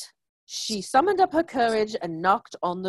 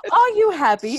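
higher and louder second try; louder retake; 8 semitones higher, 7 dB louder than usual. Shown as a demonstration. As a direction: punch the toilet paper's line up, higher and louder. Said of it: "Wow, this is so bad".

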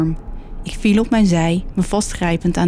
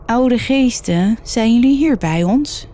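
higher, more pressing call to the spirits; insistent invocation; 5 semitones higher than usual. A narrator's reading. Chris asks the spirits once more, higher and insistent. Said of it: "vroeg Chris opnieuw".

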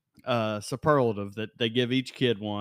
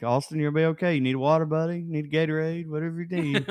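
gentle, soothing and raised in pitch; reassuring voice; 4 semitones higher than usual. Retold or imitated. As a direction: coax him like a worried caretaker. Voicing someone comforting Austin.

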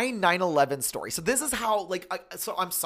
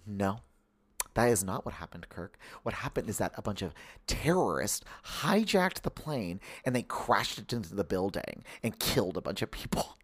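mom impersonation; 5 semitones lower, 4 dB quieter than usual. Retold or imitated. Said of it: "do this impersonation of you".

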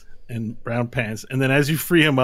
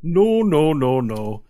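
hasty loud refusal; 3 semitones higher, 6 dB louder, slower than usual. Acted. Leprechaun refuses help.

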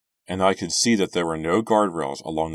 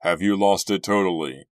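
loud, incredulous challenge; disbelief; 2 semitones higher, 7 dB louder than usual. A narrator's reading. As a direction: fire it back loudly, unable to believe it. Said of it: "Doug reacted with disbelief".

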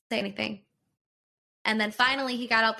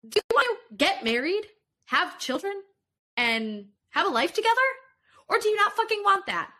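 heated, higher and faster demands; exasperated rapid-fire questions to a silent fiancé; retold furious questioning; 5 semitones higher than usual. Retold angry confrontation with fiancé.

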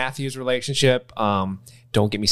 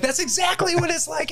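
high prim British voice. Retold or imitated. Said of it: "they're like".

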